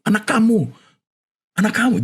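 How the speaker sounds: high, strained voice of his mother; imitating mother. Son retelling mother's words to father, high imitating voice. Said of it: "mamanya saya bilang gini".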